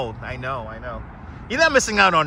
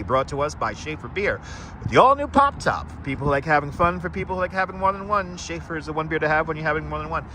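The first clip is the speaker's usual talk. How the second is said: retro ad read. Retold or imitated. Vintage beer ad jingle.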